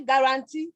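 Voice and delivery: "guarantee" with all three syllables stressed, ending up; "guarantee" in even syllable timing, lifted at the end; every syllable stressed. Shown as a demonstration. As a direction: give each syllable of "guarantee" its own stress. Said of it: "the three syllables got stressed".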